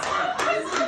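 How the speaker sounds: high, laughing "not easy". Real, not acted. Laughing repeat of phrase.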